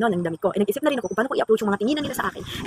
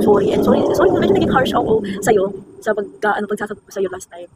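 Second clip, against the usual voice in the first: sincere apology; 3 dB louder than usual. Pretend. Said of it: "Gusto ko yung sabihin".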